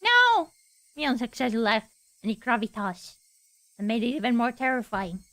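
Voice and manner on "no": high, loud shout of no; a loud, high terrified no; panicked scream. Acted. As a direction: scream it out in terror. Panicked refusal in the scene.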